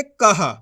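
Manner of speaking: कहा with an audible हा after का; का then हा. Shown as a demonstration. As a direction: sound the ह clearly in कहा. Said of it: "का के बाद हा का उच्चारण". (कहा में का के बाद हा बोलें)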